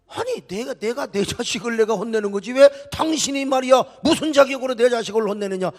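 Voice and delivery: preacher voicing an affronted parent; offended parent. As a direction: object indignantly, not shouting. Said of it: "아버지가 얼마나 기분 나빠요".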